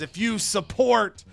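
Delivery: rousing wrestler's promo, stretched words; rally the fans like a patriotic champion; big opening, settling into the plug; hyped patriotic promo. Acted. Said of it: "and he says".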